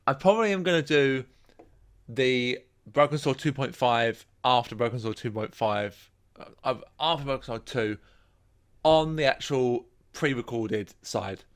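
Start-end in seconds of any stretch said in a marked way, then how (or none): 2.1-11.4 slow, slurred drowsy speech; words dragging from medication; sedated. Real, not acted. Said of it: "My meds are kicking in really a lot".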